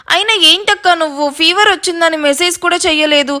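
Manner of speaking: mildly sulky complaint; a touch of hurt nagging; pouting. Acted. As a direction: reproach big sister with a pout. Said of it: "బుంగమూతి పెట్టుకొని చెప్తుంది".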